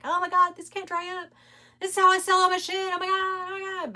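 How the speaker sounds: retold panic. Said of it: "I was like".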